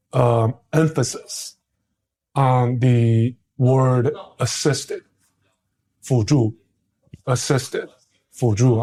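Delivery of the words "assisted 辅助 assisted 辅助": "assisted" and "辅助" set apart by pauses; emphatic repetition. Real, not acted. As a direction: land deliberately on "assisted", then "辅助". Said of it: "I wanna emphasize that".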